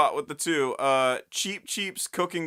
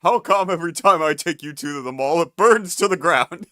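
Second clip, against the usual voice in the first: quoting a cartoon; 5 dB louder than usual. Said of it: "a quote from Billy and Mandy".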